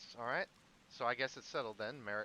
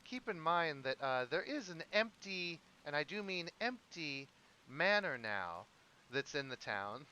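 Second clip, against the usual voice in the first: lightly voiced character, pitched higher at first; Merrick piping up; 3 semitones higher than usual. Game master as Merrick suggesting the empty manor, piping up. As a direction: speak up in a raised, emphatic voice, easing off. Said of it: "Merrick kinda pipes up and he says".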